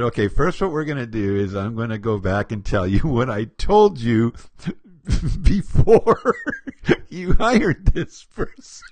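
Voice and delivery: giggling through the words; can't stop laughing mid-sentence. Real, not acted. Quote broken by giggles.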